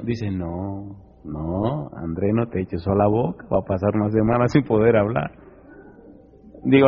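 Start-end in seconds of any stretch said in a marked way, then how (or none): 0.3-5.3 low, soft urgent warning; warning friend. Retold or imitated. A friend quietly warning the preacher off the hot chile. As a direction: hush him off the chile in a low voice.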